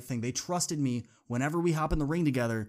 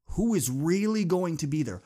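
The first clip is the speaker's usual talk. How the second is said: louder, pressing question; urgent challenge; 3 semitones higher, 5 dB louder than usual. Real, not acted. Speaker challenging his audience, louder and urgent. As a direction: push the question home.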